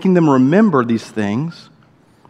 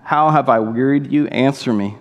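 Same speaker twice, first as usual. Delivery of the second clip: tender. Acted. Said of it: "Hear the tenderness in the Lord's voice".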